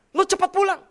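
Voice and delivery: loud, high panicked plea; frightened wife. Retold or imitated. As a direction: beg him to come home now. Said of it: "istri saya ketakutan". (istri ketakutan meminta suami cepat pulang)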